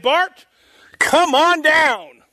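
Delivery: high, loud, drawn-out game show call; game show announcer. Pretend. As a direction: belt it out like calling a contestant down. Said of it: "didn't watch The Price is Right".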